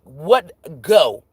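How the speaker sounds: loud order to a dog; firm command. Retold or imitated. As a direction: send the dog away, sharply.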